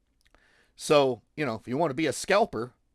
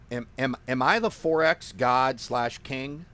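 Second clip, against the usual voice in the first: gleeful, amused mock boasting; giddy self-crowning, punched a little louder; audible happiness; 2 semitones higher, 4 dB louder than usual. Real, not acted. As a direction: crow happily, breaking into laughter between questions. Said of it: "you can see the happiness on my face and in my voice".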